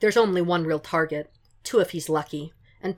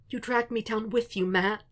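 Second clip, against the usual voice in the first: tearful whisper; 5 semitones higher than usual. Acted. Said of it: "Foggy whispers again".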